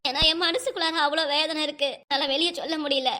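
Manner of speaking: acted tearful complaint. Wife confiding her inner pain to her husband, tearful. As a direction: speak through hurt and tears. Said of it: "இப்ப எதுக்கு அழுதுட்டு இருக்க நீ?".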